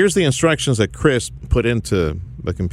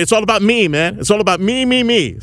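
cocky DJ voice; 10 semitones higher than usual. Pretend. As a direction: sneer it like a vain DJ. Self-centred DJ mock boast.

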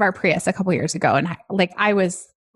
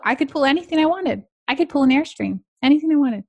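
higher, building excitement; excited; 6 semitones higher, faster than usual. Real, not acted. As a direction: gush about the freedom. Excited boast about new truck.

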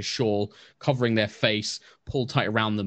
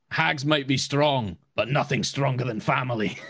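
dramatic hero line; 4 semitones higher than usual. Acted. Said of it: "Clive looks up and it's just like".

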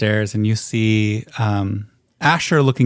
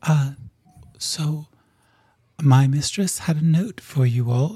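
small messenger being; 5 semitones higher than usual. Acted. GM voices uncomfortable messenger.

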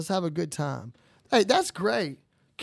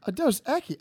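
incredulous echo; 6 semitones higher than usual. Retold or imitated. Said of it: "I'm like".

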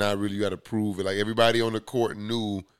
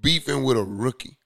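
exasperated; 6 semitones higher, 5 dB louder than usual. Real, not acted. Ranting about player beefing.

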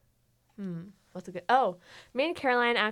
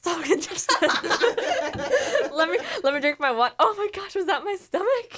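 lightly voiced, laughing bubbly teen; Caroline impression; 4 semitones higher than usual. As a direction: play the friend, lightly, with laughs. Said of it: "who can do the best impression of me".

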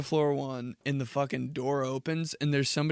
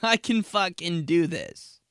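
high mock protest; 8 semitones higher, 6 dB louder, slower than usual. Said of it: "You're like".

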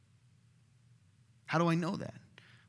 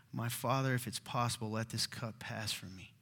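very soft, low pleading; hushed prayer, falling away at the end; reluctant, anguished prayer; 4 semitones lower, 8 dB quieter than usual. Acted. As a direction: beg your father quietly to be spared. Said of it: "he didn't want to do this".

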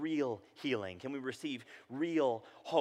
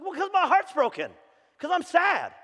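mock broken-hearted; 9 dB louder than usual. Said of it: "It's like".

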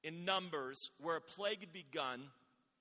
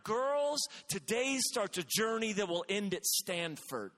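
pep talk; 3 dB louder, slower than usual. Retold or imitated. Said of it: "my speech was based around".

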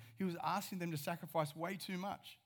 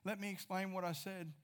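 mock begging; 3 semitones higher than usual. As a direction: chase after them with hurried mock pleading. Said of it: "beg them and go".

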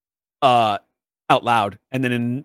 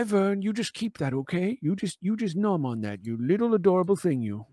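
higher, faster, gushing doctor; chatty doctor; 4 semitones higher than usual. Acted. Doctor gushing goodbyes and cooing at the little creature, higher and fast. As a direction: rattle off pleasantries, then coo at the pet. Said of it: "and Doctor says".

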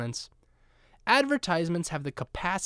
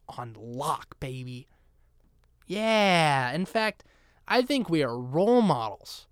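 mock-earnest praise, lightly sarcastic; understated, honeyed sarcasm; dripping sarcasm. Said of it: "can't hear the sarcasm dripping off my tongue".

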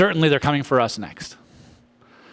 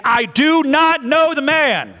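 much higher and louder, dragged out slowly; cursing denial; 14 semitones higher, 5 dB louder, much slower than usual. Acted. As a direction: swear it out in fury. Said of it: "began to curse and swear".

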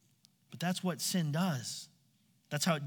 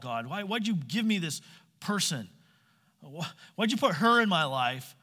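whiny victim. Retold or imitated. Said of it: "he acts the victim".

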